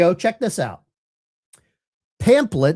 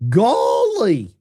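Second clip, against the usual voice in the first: Gomer Pyle impression; 4 dB louder than usual. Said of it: "That's my best Gomer Pyle voice".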